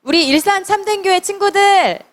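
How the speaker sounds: put-on rally the children to attention; calling the class. Shown as a demonstration. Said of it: "자, 차렷!". (아이들을 부르는 높은 외침)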